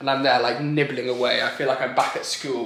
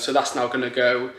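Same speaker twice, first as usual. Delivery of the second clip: breathless from talking too fast; gasping between phrases; out of breath. Real, not acted. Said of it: "runs out of breath".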